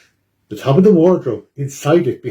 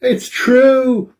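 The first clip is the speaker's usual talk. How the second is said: much higher cry of confession; guilty Boris; 12 semitones higher, 3 dB louder than usual. Acted. Boris confesses to the crowd, crying out. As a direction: blurt it out ashamed. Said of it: "Boris cries".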